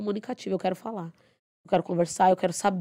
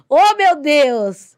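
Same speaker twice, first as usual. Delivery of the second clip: louder, very slow, higher exasperated groan; 7 semitones higher, 10 dB louder, much slower than usual. Real, not acted. Dancer venting about stingy gym owners, exasperated groan. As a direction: throw up your hands in exasperation.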